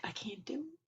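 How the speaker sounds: breathless whisper, high and defeated; whispered despair. Pretend. A worn-out runner whispering to herself, whispered despair. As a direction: breathe it out like you're spent.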